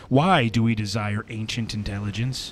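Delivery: slow, solemn segment read over music; reflective reading. Acted. Rereads the reflection.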